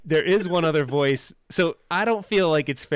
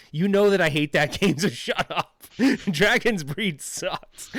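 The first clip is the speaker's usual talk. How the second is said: laughing mock outrage; 5 semitones higher, slower than usual. Real, not acted. Streamer rejecting a viewer's game suggestion, laughing mock rant. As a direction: crack up while mock-raging at it.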